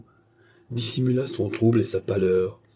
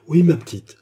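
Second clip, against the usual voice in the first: ton caressant; 6 semitones higher, 7 dB louder than usual. A narrator's reading. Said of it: "d'un ton caressant".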